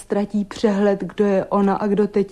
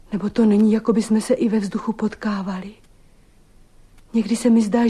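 ordinary talk, nothing marked

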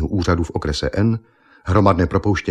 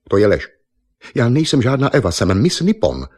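louder, higher, sudden indignant denial; indignant protest; 5 semitones higher, 4 dB louder than usual. Acted. Miss Nippon denying she is Eva, indignant and louder. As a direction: snap back, offended at being called Eva. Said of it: "Náhle změnila tón".

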